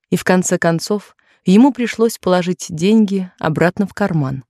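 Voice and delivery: ordinary delivery, nothing marked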